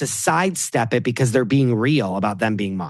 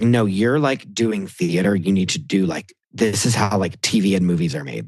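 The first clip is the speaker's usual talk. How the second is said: lecturing Alec; 4 semitones lower than usual. Retold or imitated. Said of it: "he was like".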